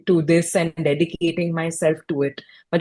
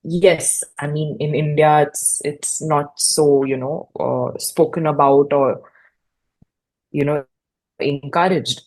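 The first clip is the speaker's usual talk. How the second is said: imitating a halting, reluctant answer with long pauses; hesitant; 2 semitones lower than usual. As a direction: hedge it lightly, feeling for each word. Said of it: "very hesitant, hesitantly said".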